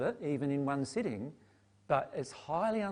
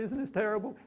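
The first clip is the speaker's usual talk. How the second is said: higher, fretful cooing over someone, lightly played; mock pity; 6 semitones higher than usual. Mocking the group's pity for teary Mary, higher cooing. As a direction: coo with exaggerated sympathy. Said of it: "you're feeling".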